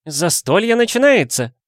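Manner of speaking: high, loud festive shout; loud call. A narrator's reading. Woman calling the family to the table, shouting. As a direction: announce the feast to the room. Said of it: "громко крикнула женщина".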